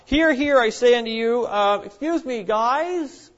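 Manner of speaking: loud, high call to stop a fight; a woman calling loudly to halt a fight; calling for attention. Acted. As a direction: cut through the noise and halt everyone. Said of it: "she stops the entire fight".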